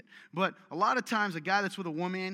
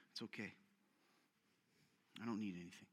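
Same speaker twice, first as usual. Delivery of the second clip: soft, self-pitying mock martyr; mock martyr sigh; 8 semitones lower, 14 dB quieter, faster than usual. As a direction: play the long-suffering martyr, much softer. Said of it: "always a martyr".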